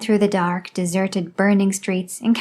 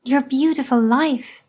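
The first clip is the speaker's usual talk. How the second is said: slow, a touch of a sob; drawn out, understated grief; slow grieving repeat, lightly acted; slow lament; 4 semitones higher, slower than usual. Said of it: "my mother sobbed".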